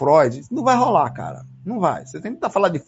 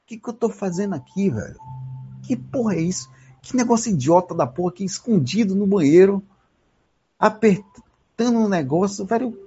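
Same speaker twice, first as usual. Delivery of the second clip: ashamed self-talk; 2 semitones higher than usual. Retold or imitated. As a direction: scold yourself under your breath. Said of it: "Eu saí envergonhado comigo mesmo".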